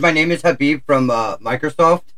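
mimicked tech-support caller with an Indian accent; imitated Indian accent. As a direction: do a light Indian accent, as a phone agent. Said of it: "my Indian accent is pretty good".

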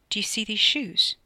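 deliberate, haughty emphasis; menacing question. A narrator's reading. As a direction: press the point threateningly. Armed man menaces the driver.

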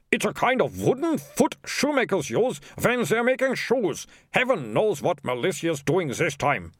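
high, slow explaining voice; exasperated mayor. Acted. Mayor explains a shoemaker's last, high and exasperated. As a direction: spell it out slowly in a high voice.

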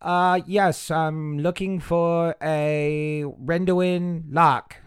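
high-pitched little gnome voice; little rock gnome. Acted. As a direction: play a small gnome, pitched well up. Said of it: "the little gnome goes".

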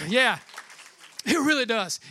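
ordinary talk

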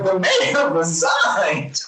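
slow, laughing proclamation; drawn-out giggling shout; mock announcement laughing. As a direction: spell out the absurd news through laughter. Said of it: "it was like".

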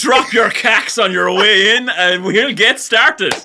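slow, drawn-out matey teacher voice; loud, slow comic lesson opener; mock life-skills teacher. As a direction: play a hammed-up teacher rallying the lads.

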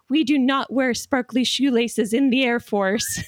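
lightly hammed-up drill instructor; slow mock sergeant reprimand. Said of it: "they're like".

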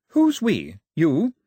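put-on high, firm young woman's command; angry Daphne. A narrator's reading. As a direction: order the soldiers to disarm. Daphne voiced, challenging.

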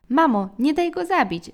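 high, loud plea to mum; child's scream. A narrator's reading. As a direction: cry out like the youngest brother begging. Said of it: "wrzasnął nasz najmłodszy brat". (rozpaczliwy wrzask dziecka)

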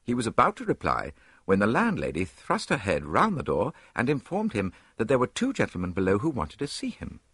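ordinary delivery, nothing marked

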